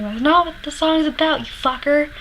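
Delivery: retold angry heckle. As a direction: snap back at the singer, offended. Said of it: "I actually remember saying".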